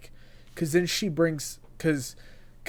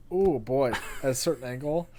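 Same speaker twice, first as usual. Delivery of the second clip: hiccups. Real, not acted. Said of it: "I've got the hiccups now".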